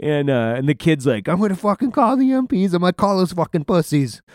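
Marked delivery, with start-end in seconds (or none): 1.3-4.2 high, loud, mocking voice; high-pitched retold outrage; imitated upset kid. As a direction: mimic someone threatening to tell on you. Upset kid threatens to report them.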